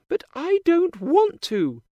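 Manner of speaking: put-on high, bright girlish princess voice; cartoon princess. A narrator's reading. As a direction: play a sweet young princess. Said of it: "says the princess".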